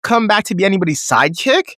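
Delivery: high, hammed-up parody of a wrestling promo; mocking Nikki Bella. Fan mocking Nikki Bella's terrible promo, high parody voice. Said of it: "These were Nikki Bella's exact words".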